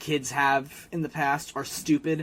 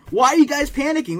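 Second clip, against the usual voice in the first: mock Jimmy; 10 semitones higher, 6 dB louder than usual. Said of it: "he's like".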